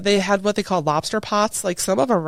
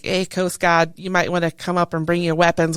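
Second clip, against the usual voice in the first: imitating a Maine fisherman's accent, lightly. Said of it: "I'm loving the accent".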